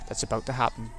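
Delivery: story narration. A narrator's reading. Narrator reads game text.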